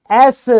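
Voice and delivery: एस said as a clear model word; teacher sounds out एस for SHO; shown pronunciation. Shown as a demonstration. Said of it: "ये ऐसे बोला जाएगा".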